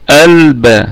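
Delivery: البا with opened hamza, elba. Shown as a demonstration. Teacher showing how to begin البا. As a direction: start البا on an open a sound. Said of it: "نقول البا".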